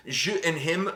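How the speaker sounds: "him" said the French way, rising at the end; "je and him" in a mock French accent. Shown as a demonstration. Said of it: "I don't know how to say him in French".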